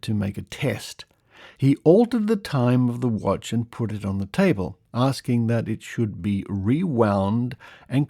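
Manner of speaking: measured, emphatic storytelling read; lively, deliberate narration; article read-aloud. Acted. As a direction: read out a curious old news report. Reads an old article aloud.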